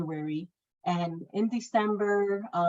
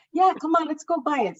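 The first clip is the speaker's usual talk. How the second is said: coaxing; 9 semitones higher, 5 dB louder, faster than usual. Retold or imitated. Coworker coaxing her.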